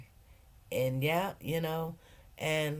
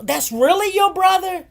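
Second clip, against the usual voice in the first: surprised question; 13 semitones higher, 12 dB louder than usual. Retold or imitated.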